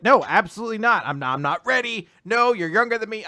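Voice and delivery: acted-out rushed protest; flustered refusal. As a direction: blurt it out, flustered.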